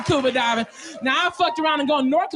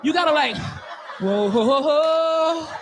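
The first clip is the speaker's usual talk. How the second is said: mock placating; slower than usual. Shown as a demonstration. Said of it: "you gotta kinda roll with, like".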